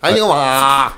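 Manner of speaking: mock Limerick accent. Pub podcaster answering a dare, mock Limerick accent. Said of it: "Let's do it by county then".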